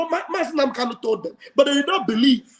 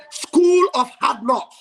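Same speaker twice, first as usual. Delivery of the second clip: loud, slow rallying call; crowd call-out; 4 dB louder, slower than usual. Real, not acted. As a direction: lead the chant again, loudly. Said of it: "Somebody say".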